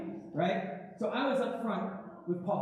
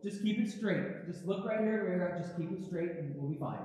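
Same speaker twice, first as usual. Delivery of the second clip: calm, nonchalant. Retold or imitated. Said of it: "very calmly and nonchalantly says".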